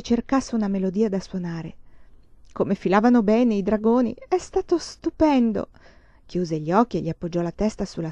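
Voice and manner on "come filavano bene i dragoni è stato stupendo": high, delighted exclamation; thrilled. A narrator's reading. Girl delighting in the dragon race, high and thrilled. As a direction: gush about the boats, lifting high.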